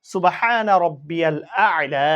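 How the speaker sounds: slow, drawn-out Arabic recitation; prayer recitation. Shown as a demonstration. Teacher recites the prayer for students, slow and drawn out. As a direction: chant each word slowly and clearly for learners. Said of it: "পড়ব কি?".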